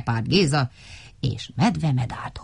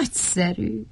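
higher, pleased little voice; mildly delighted small character; 5 semitones higher, 3 dB quieter than usual. A narrator's reading. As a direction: savour it with a touch of glee. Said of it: "örült Vacska Matti".

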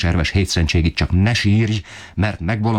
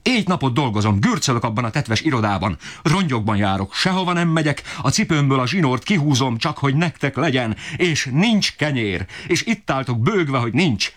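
very high, strained, desperate tirade; father berating the family for lack of bread, shrill-high rage; raging father; 11 semitones higher than usual. Acted. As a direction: screech out the injustice of it all.

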